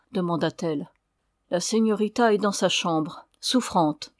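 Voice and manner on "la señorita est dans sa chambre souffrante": sèchement. Acted. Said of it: "dit la señora sèchement".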